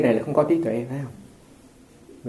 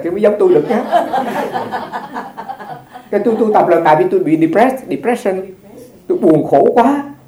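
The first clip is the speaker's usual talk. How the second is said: higher, louder, laughing monk voice; playfully imitating the master, higher and louder; famous meditation master; 5 semitones higher, 5 dB louder than usual. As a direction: voice the master's self-mocking lament with a laugh. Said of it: "Ông nói".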